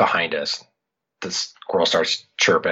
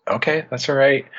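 reassuring; 7 semitones higher than usual. Retold or imitated. Dad soothing tearful daughter.

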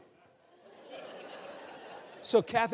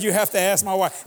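louder repeat; 7 dB louder than usual. Real, not acted. Repeats louder, nurse said what.

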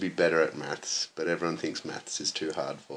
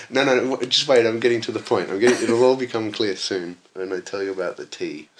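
eager pleading; 6 semitones higher, 8 dB louder than usual. Retold or imitated. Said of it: "that's when I'm like".

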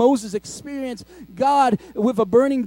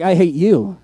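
laughing mock retort; 5 semitones lower, 6 dB louder than usual. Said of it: "I'll be like".

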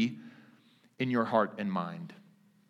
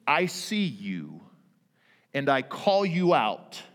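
peace calling out the enemy; 3 dB louder than usual. Pretend. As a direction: stand guard and call out the intruder. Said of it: "calls out the enemy and says".

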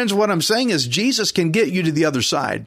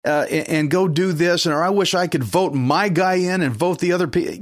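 fretful worrier; 3 semitones higher than usual. Retold or imitated. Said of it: "You're just concentrating on the problem".

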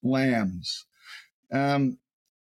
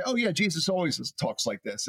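offhand taking for granted. Acted. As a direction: toss it off as old news. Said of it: "it's very easy for us to".

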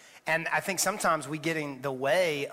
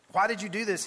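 yell; 4 semitones higher than usual. Acted. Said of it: "he yelled in frustration".

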